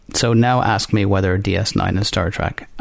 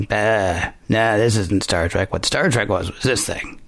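put-on old man voice. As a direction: grumble it like a grumpy old-timer. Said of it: "That was a good, uh, old man voice".

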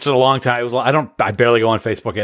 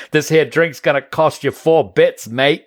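put-on Australian accent; 3 semitones higher, slower than usual. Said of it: "I did the whole thing as an Australian".

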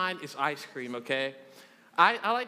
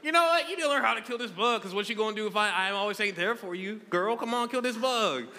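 sassy mock pep talk to girlfriend; sarcastic lecture; 2 semitones higher than usual. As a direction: scold her jokingly to kill the bug. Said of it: "So then I'm like".

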